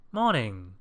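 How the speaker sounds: loud, swooping jolly hello; hearty and carefree; cheerful greeting. A narrator's reading. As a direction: sing out a breezy greeting. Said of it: "said his cousin cheerfully".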